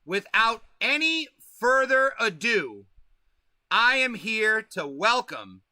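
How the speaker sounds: slow, drawn-out announcer build-up to the name; stretched, showman welcome for the guest; hype guest introduction. Acted. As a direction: roll out the intro like a ring announcer. Host introduces guest on stream.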